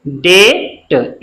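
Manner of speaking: "डेट" very slowly, with a long ay; vowel demonstration. Shown as a demonstration. Teacher shows the single-matra sound, "डेट" slow with long ay. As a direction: stretch "डेट" out, final t released separately. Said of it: "इस तरह से".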